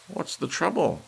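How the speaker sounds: worried woman crying out to the manager. A narrator's reading. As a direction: call out the question in alarm. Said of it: "a woman cried".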